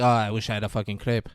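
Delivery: movie Frenchman, hint of accent. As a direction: play up the French pronunciation of crepe. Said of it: "weren't sure with the accent".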